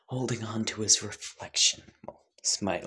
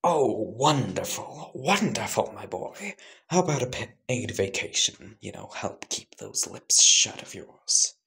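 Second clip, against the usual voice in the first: oily villain savouring the offer; lightly voiced scheming boss; smug crime boss; 2 semitones higher, 3 dB louder than usual. Archibald voiced in story.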